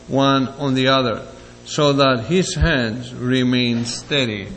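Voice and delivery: lettura biblica. Acted. Reads scripture aloud to congregation.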